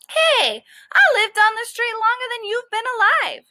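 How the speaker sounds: defensive tough-dog comeback; gruff dog retort. Acted. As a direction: push back at the squirrel, offended. Dog snaps back at squirrel.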